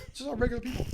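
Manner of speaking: chuckling through the words; laughing. Real, not acted. Amused at calling jail inmates regular people, laughing.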